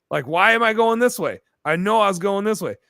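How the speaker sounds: mock bewildered yelp; confused disbelief. Retold confusion lost in dark.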